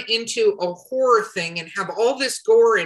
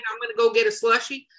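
put-on Southern accent; faster than usual. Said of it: "I did a Southern accent for that".

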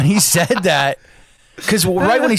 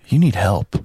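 very calm; 9 semitones lower than usual. Retold or imitated. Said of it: "Like, very calm".

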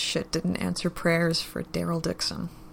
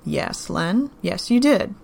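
a louder, clipped edge of annoyance; irritated; 5 dB louder, slower than usual. Acted. Joe agrees with Len, loud and irritated. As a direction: let the patience wear thin. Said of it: "the irritation in his voice was clear".

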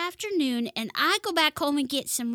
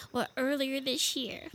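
hushed, softer, almost voiceless; grieving near-whisper; 6 dB quieter than usual. Acted. Mother tells friends of her friend's death, hushed grief. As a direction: barely get it out for grief.

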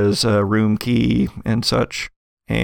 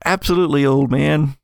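fake British accent; 3 semitones higher than usual. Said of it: "a kind of a fake British accent".

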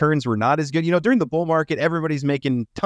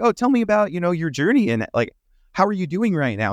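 bright eager interest; 4 semitones higher, faster than usual. Retold or imitated. Voicing his friendly approach to people.

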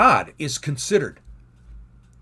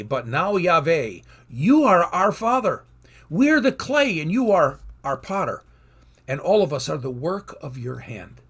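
proclaiming scripture; 4 dB louder than usual. Acted. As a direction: proclaim the verse with fervor. Reads Isaiah verse.

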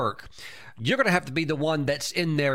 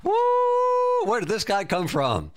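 astonished; 8 semitones higher, much slower than usual. Retold or imitated. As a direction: gasp in amazement at this bold kid. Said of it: "looked at each other like".

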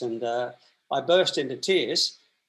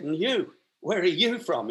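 lightly imitated Geordie manager singling someone out; Geordie accent; 3 semitones higher than usual. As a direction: put on a Geordie boss's challenge. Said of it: "his big Geordie accent".

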